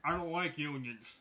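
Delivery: talking around a wad of chew; chewing tobacco. Real, not acted. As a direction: mouth full of chew. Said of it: "It's the chew in my mouth".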